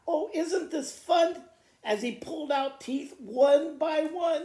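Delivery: loud, jolly, gloating dentist; gleeful dentist. Acted. Dentist gloating while pulling the crocodile's teeth. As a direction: relish every tooth you pull.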